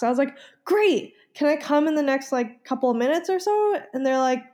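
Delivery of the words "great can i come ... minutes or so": high, eager, hopeful asking; mock eager hope. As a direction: sound falsely cheerful and hopeful. Hopeful call to pharmacy.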